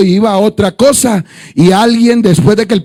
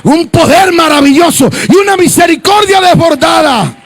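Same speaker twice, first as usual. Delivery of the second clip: preaching; 3 semitones higher than usual. Acted. Pastor to the congregation, preaching at full force. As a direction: drive it home to the faithful.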